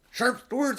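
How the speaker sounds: loud, high urgent call; quick command. Acted. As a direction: hurry them off at once. Peter urges them off.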